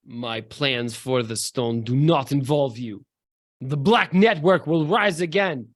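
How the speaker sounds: lightly voiced accented villain; measured menace in a put-on accent; villainous declaration. Villain defying the heroes before his escape, mild menace. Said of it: "he says".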